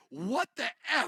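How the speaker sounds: put-on sudden yell. Retelling how a man turned around at a stranger: imitating someone yelling. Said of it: "turns around and yells".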